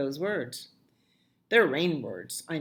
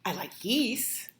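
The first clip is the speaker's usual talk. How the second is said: whisper; 4 semitones higher than usual. Acted. Child whispering to parent at bedtime, hushed. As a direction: breathe it like a secret.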